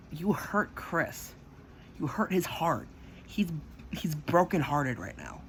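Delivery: retold angry scolding; mad as hell. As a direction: accuse slowly, weighing each word. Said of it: "mad as hell".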